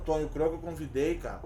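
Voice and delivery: talking with a mouth full of food; words round a big bite. Real, not acted. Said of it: "Falando de boca cheia".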